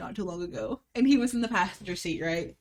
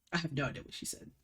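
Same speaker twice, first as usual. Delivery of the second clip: imitating boyfriend; 4 semitones lower, 7 dB quieter, faster than usual. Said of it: "He's like".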